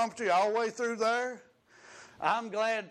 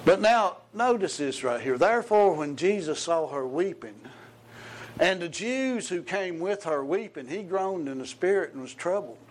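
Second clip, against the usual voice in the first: loud, rising sermon delivery; preaching; 3 dB louder than usual. Acted. Preacher booms the Lazarus story to the congregation. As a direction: drive the scripture home to the church.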